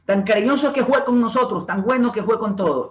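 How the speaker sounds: FUE said as JUE, BUENO as GÜENO; lightly voiced coastal dialect speaker; Andalusian-like coastal dialect. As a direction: read the dialogue in coastal dialect. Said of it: "Aquí están los sonidos andaluces".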